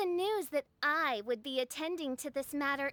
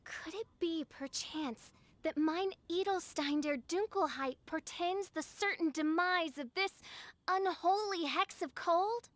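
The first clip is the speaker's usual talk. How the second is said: grandiose archaic speech. Acted. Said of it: "Why do you have to talk so funny all the time?".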